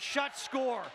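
rising shout on the goal; goal call. Real, not acted. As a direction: lift the voice as it goes in.

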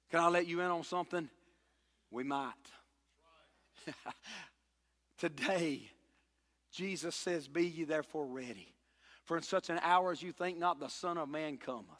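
soft solemn sermon voice; hushed preaching. Acted. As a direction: lean in and hush the room.

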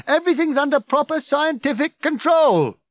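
high, loud official announcement; blaring, officious yell; shouting. A narrator's reading. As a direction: bellow it to control a crowd. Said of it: "shouted Ford again".

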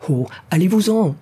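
high, wailing dismissal; anguished wail. A narrator's reading. Delirious castaway driving rescuers away, high wail. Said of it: "hurla-t-il avec une grimace horrible".

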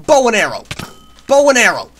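very loud shouted battle cry; triumphant attack shout. Pretend. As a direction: bellow the weapon's name as you fire. Calling out weapon while attacking.

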